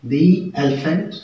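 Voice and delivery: दी long ee, slowed, before elephant; dee before vowel. Shown as a demonstration. Teacher repeating the example slowly, दी long. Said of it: "इसको बोला जाता है दी".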